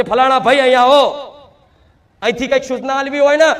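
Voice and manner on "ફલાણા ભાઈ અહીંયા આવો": mock call across the grounds. Shown as a demonstration. Demonstrating calling a man from across the temple, mock shout. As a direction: call him over as if from the far side. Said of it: "જોરથી બૂમ પાડવી પડે".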